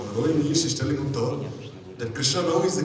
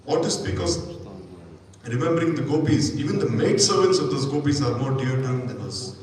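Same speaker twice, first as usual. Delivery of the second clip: a little jealous; 3 dB louder than usual. Acted. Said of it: "she became a little jealous".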